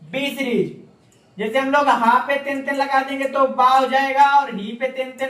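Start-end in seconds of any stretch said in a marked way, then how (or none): 0.0-1.4 "बी सीरीज" stretched out very slowly, each word held long; slow teaching repeat of "बी सीरीज"; slow, drawn out. Shown as a demonstration. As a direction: spell out "बी सीरीज" slowly for the students to copy. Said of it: "कौन से?".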